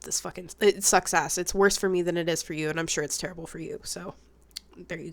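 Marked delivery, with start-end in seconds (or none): none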